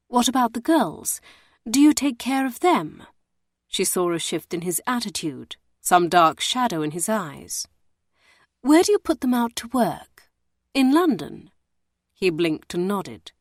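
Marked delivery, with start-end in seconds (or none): 0.1-11.5 higher, insistent questioning lady; probing lady. Acted. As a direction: press him gently but firmly. Emmeline presses the warder.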